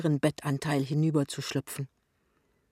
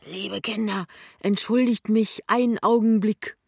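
higher, tipsy visitor's voice; tipsily apologetic, voice raised; Jachmann; 6 semitones higher, 6 dB louder than usual. A narrator's reading. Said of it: "dass der Besitzer beschickert ist".

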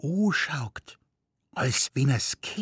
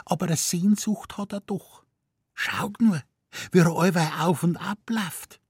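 higher, sentimental Bavarian wife; nagging wife; 9 semitones higher than usual. A narrator's reading. Wife to husband at the lion cage, wistful and higher. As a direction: plead the caged lion's longing.

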